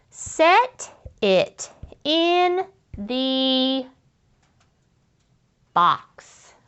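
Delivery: very slow, stretched "Set it in the box"; slow sounding out. Shown as a demonstration. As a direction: draw the words out while writing. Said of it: "sound it out as you're writing".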